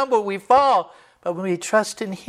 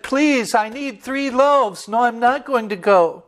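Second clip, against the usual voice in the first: higher, slow, insistent pleading; persistent begging; 4 semitones higher than usual. Retold or imitated. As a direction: refuse to leave until he gives. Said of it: "he wouldn't let go".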